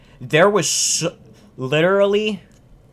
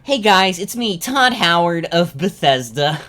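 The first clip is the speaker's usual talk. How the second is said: Todd Howard impression; 4 semitones higher, 3 dB louder than usual. Mocking Todd greeting the audience, lightly voiced. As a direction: greet the fans like a smooth company boss. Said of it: "He kinda sounds like this".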